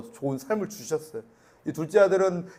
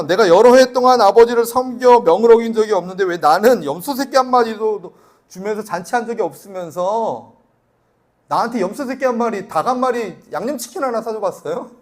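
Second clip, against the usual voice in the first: loud, higher-pitched resentful outburst; angry elder son; 4 semitones higher, 9 dB louder than usual. Acted. Elder son confronts father over the feast, angry outburst. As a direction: protest your unfair treatment at full voice. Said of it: "막 화가 났는데".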